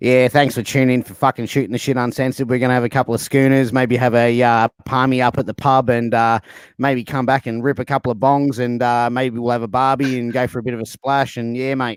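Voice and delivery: broad, rough Australian bogan accent. Showing the others how a bogan would talk: australian bogan voice. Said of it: "a bogan would talk like this".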